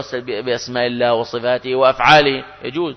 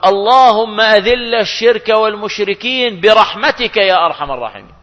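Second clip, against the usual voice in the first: imam's prayer, imitated; 6 semitones higher, 3 dB louder than usual. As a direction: intone it like an imam leading the prayer. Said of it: "يقول".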